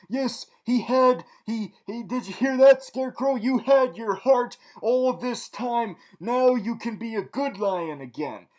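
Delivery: loud, high, hammed-up revelation; mock gushing. Reviewer telling Scarecrow about his heart, mock gushing. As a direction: proclaim it like a grand fairy-tale discovery.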